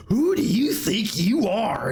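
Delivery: slow, breathy threatening whisper; menacing whisper. Retold or imitated. Elsa pinning Otis, menacing whisper. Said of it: "she was like".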